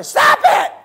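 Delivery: sky-high, very loud squawk; high shocked yelp. Retold or imitated. Ron shocked again in attic, high shocked yelp. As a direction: imitate a voice jolted up by electricity. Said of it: "your voice will go that way when you get hit".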